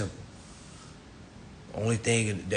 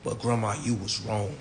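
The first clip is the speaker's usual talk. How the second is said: gentle but firm; 2 semitones lower, 5 dB quieter than usual. Retold or imitated. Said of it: "look at grandma and say".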